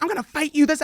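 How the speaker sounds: high-pitched mock yell; retold screaming. The guy threatening to fight, mock screaming. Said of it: "the guy kept screaming".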